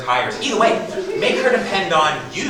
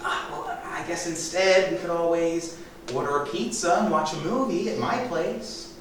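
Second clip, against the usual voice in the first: feigned surprise; 2 semitones higher, 4 dB quieter than usual. Acted. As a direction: pretend the idea has only just come up. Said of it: "I'll feign surprise".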